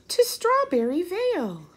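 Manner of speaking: high squeaky little mouse. Acted. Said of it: "Mouse squeaks".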